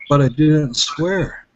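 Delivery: slow, drawn-out mock protest; retold stubborn insistence. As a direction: imitate a man stubbornly repeating his excuse. Retold man's stubborn repeated response.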